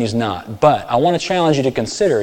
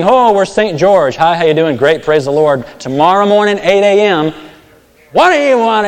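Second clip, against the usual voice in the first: high, loud sugary greeting turning to a snarl; preacher mocking churchgoers, loud and high; mock two-faced Christian; 6 semitones higher, 6 dB louder than usual. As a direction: ham up the sweet Sunday saint then bite. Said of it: "Saint George versus dragon churchgoer".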